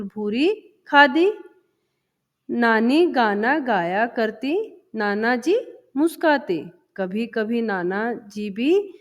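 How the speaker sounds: put-on slow, sing-song recitation of a children's poem. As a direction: chant each line slowly for the class. Teacher recites the poem slowly. (धीमी लय में कविता पाठ)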